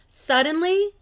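high and loud suddenly; dramatic. A narrator's reading. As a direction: make the listener jump. Narrator dramatic moment.

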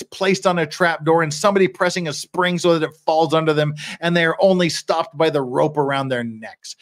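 steady oratorical description, building; courtroom plea read aloud. Acted. Defender picturing the scaffold for the judge, building oratory. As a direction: lay out each grim detail deliberately.

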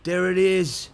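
rejoice over the win; real excitement. Real, not acted. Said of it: "I apologize for my excitement".

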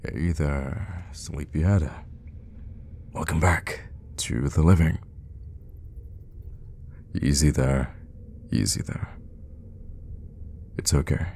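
soft, calming coaxing; gentle soothing. Acted. Hermit to the waking trapped stranger, soothing. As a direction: ease a groggy patient awake, softly.

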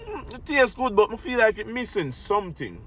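chewing food while talking; talking between bites of food; mouth full. Real, not acted. Seen 0: bites at -5; mouth moves and puckers like chewing while speaking.

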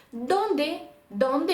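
«Донде» modelled as DON-de; penultimate stress. Shown as a demonstration. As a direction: stress the first syllable of «Донде». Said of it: "все за правилами".

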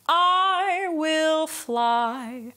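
"I" started with a hard glottal catch, sung slow; "I" with a hard glottal attack. Shown as a demonstration. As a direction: punch the I from the throat. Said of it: "let's do a hard, uh, glottal attack".

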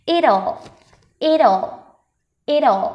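"it'll" as i-dol, tongue rising to an l; dark l. Shown as a demonstration. Teacher drilling the contraction, dark l in "it'll". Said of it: "phải đọc được cái âm ồ".

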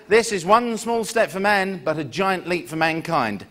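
slow, solemn historic announcement; a light Neil Armstrong impression; Neil Armstrong quote. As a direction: deliver it like the famous moon words. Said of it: "and he said".

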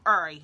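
"Every" as "er'y", the V left out; every without V. Shown as a demonstration. Showing how her town says it, "Every" without its V. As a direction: say "Every" with the V dropped. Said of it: "We take the V out".

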